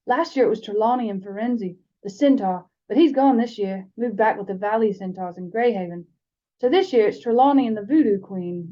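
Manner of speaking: steady read-aloud storytelling voice with the characters lightly voiced; story narration. A narrator's reading. Podcast host reading the chapter to her co-host, storytelling narration. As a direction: tell it like a bedtime chapter, even and unhurried.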